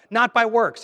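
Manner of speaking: "Not by works" shouted high and loud; emphatic. Shown as a demonstration. Preacher insisting to the congregation, loud emphatic. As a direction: punch "Not by works" hard. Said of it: "he's gotta clarify it again".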